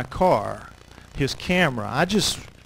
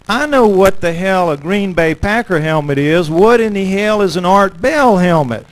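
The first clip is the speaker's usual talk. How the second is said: louder, mock-exasperated guard; 3 semitones higher, 7 dB louder than usual. Biker guard repeats his question, louder and fed up. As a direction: push the question back at him, mock annoyed. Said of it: "And he says".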